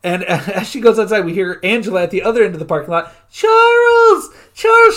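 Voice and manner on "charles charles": high loud calling across a lot. Retold or imitated. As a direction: call his name from far away. Angela calling across parking lot.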